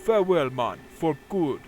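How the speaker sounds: loud, defiant adventurer voice; quest character voice. Acted. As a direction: brush off the foe and storm off. Character dialogue read aloud.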